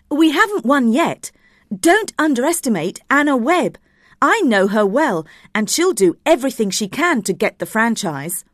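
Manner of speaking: cautious director. Acted. Director warning colleagues about a rival, cautious. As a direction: warn the team firmly. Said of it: "was more cautious".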